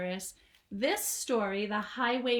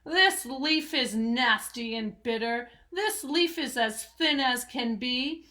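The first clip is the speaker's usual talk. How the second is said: rat voice; 4 dB louder than usual. Acted. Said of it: "declared the highway thief".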